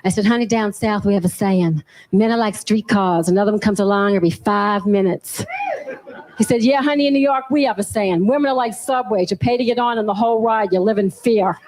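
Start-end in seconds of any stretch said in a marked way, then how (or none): 0.2-5.4 put-on Southern US accent, a little lower. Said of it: "I put on the Southern accent". 6.6-11.6 imitated New York boyfriend accent; lightly put-on New York accent. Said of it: "my boyfriend's from, from New York".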